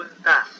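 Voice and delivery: does said loud as das, after do; pronounce does. Shown as a demonstration. Teacher shows students how does sounds, loud. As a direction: hit does hard as das. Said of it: "Se pronuncia does".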